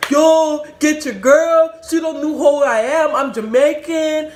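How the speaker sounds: high, loud imitated protest; acting out a man's loud bluster; shouted appeal. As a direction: yell for someone to hold her back. Chased man calls out, boasting.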